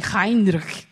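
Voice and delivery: Heinrich said the German way; German-sounding Heinrich; German pronunciation. Shown as a demonstration. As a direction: say Heinrich with a careful German H and final ch. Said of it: "tive que quase que fazer alemão ... pra pronunciar corretamente".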